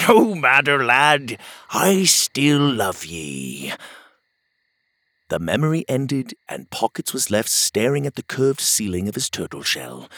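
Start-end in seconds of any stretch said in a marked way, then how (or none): 0.1-3.7 a hint of an old sea dog, slow and loving; old sailor. Otis comforting Pockets, slow old sailor voice. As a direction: reassure the boy, slowly.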